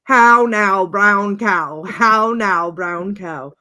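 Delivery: loud, theatrical elocution exercise; imitated anchorman's warm-up, starting loud and easing off; vocal warm-up. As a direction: project it like a theater kid warming up. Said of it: "doing his little vocal warm-ups".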